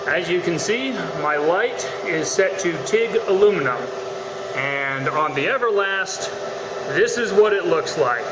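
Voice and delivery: talking over a humming welder; machine noise behind. Real, not acted. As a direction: workshop machine noise in background. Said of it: "Sorry about the machine noise".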